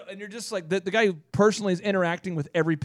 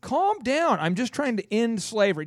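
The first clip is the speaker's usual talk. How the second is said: mock exasperated Lincoln; 5 semitones higher, slower than usual. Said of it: "And you're like".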